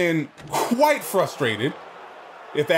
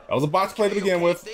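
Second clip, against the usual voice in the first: faster, higher restatement; quicker repeat; 3 semitones higher, faster than usual. Real, not acted. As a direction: rattle it off again, brisker. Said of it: "repeats faster and higher".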